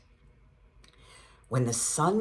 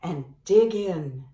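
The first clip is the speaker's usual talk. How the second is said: grinning badger; 6 semitones higher, 4 dB louder than usual. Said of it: "Badger says with a grin".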